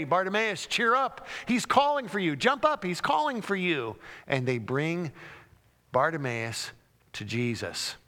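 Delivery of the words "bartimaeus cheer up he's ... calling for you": excited urging. Acted. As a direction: hurry him up with joy. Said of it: "they begin excitedly to say".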